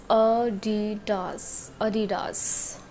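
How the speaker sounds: Adidas slowly as "AH-dee-dahs"; Adidas said the German way, open vowels; correct Adidas pronunciation. Shown as a demonstration. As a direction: spell out Adidas syllable by syllable. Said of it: "Adidas is totally wrong".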